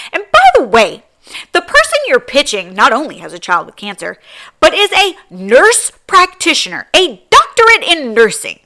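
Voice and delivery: loud, high, outraged disbelief; furious, loud and incredulous; real angry rant. Real, not acted. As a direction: blow up at someone who crossed a line. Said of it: "Sorry, guys, I got so mad just now".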